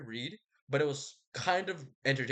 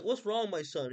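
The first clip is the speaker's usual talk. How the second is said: mock motherly; 6 semitones higher than usual. Thetis answering her son.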